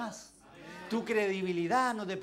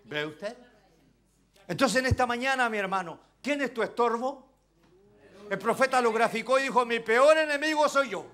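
loud, fervent preaching to the flock; preaching at full force; 4 semitones higher, 6 dB louder than usual. Acted. Preacher urging his brothers to value God's grace, fervent and loud. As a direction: drive every line home from the pulpit.

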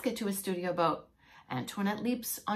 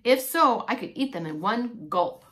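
a lightly voiced hungry heron, punching "If so"; taunting heron; 5 dB louder than usual. Heron taunting the frog on the branch, mock menacing. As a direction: tease the frog you mean to eat. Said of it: "taunts a heron".

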